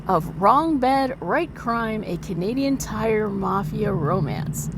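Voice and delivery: slow, dramatic title announcement. Acted. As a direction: announce it like a movie trailer. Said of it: "your exclusive dramatic reading".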